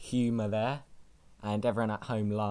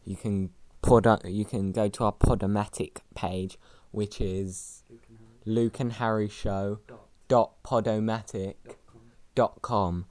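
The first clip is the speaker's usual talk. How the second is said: sultry voice. Acted. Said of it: "my sultry voice".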